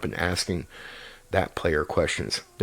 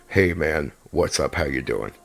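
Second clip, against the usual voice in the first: slightly lower, a hint of a heavier big guy; deeper voice for a big guy; 4 semitones lower than usual. Shown as a demonstration. DM demoing a big character's voice, slightly lower. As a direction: drop the pitch a touch for a bigger character. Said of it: "That's a change in tone right there".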